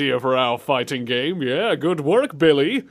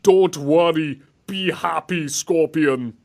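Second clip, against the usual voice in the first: slow, loud mock Jamaican accent; sing-song Jamaican accent, slowly; mock Jamaican accent, louder; 3 semitones higher, 4 dB louder, slower than usual. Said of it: "Sub-Zero with a Jamaican accent".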